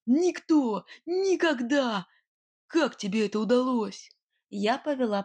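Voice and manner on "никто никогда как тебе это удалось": a hint of a hot-tempered brigand, raised; Nightingale flaring up. A narrator's reading. Brigand Nightingale, stunned, to the witch: rising indignant voice. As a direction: flare up at the witch in disbelief. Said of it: "вспылил герой сказок".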